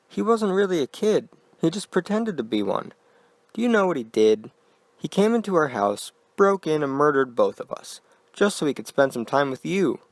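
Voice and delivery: unnatural falsetto. Acted. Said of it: "Her voice was an unnatural falsetto".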